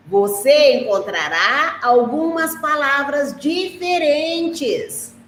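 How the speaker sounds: put-on slow, careful read-aloud for young kids; teacher reading the textbook to her class; slow reading to children. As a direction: read it gently and slowly to a child. Teacher reads text to children.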